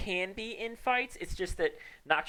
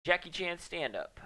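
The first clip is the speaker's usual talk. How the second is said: announcer voice; 4 semitones higher, slower than usual. Pretend. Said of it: "I'm actually gonna sing to chat".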